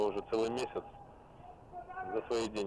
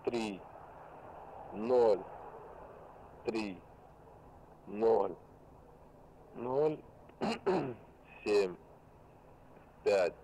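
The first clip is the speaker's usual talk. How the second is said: dictating; 4 dB quieter, much slower than usual. Real, not acted. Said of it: "Повторяю".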